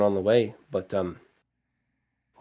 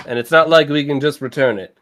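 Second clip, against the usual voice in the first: put-on louder grumbling in the Iwi accent; Iwi's accent; 5 semitones higher, 6 dB louder than usual. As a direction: mutter about the lost money. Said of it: "accent for Iwi".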